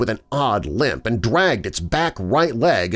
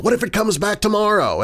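worried; 11 semitones higher than usual. Retold or imitated. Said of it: "saying stuff like".

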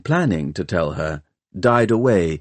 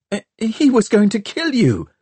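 protesting; 13 semitones higher than usual. A narrator's reading. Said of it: "he protested".

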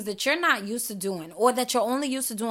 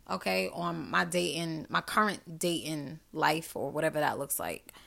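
whispered aside; 7 semitones lower, 7 dB quieter than usual. Real, not acted.

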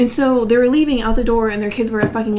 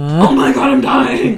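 laughing; slower than usual. Real, not acted. Dying of laughter.

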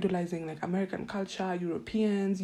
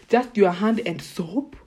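slow, louder, disbelieving repeat; incredulous echo; 6 dB louder, slower than usual. Real, not acted. Repeating her friends' shower habit back to them, slow and stunned. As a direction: drag it out like you can't believe it.

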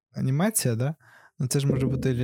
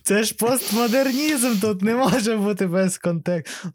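laughing; 8 semitones higher, 4 dB louder, slower than usual. Real, not acted. Laughing as he answers his friend's odd question. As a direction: still laughing, words stretched and high.

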